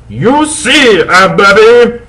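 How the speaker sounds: high, slow hammed-up wizard; old wizard voice. Dumbledore lecturing the two goths, high and hammy. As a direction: play the dotty headmaster. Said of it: "Dumbledore said".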